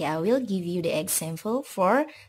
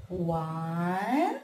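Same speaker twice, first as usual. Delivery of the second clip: excited count; 3 semitones lower, much slower than usual. Acted. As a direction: shout the final number to the kids. Counting apples with kids.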